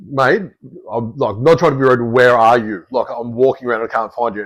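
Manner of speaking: trying to stay polite while annoyed; restrained exasperation; mildly frustrated. Retold or imitated. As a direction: hold back the frustration, firm on the question. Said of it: "probably mildly frustrated".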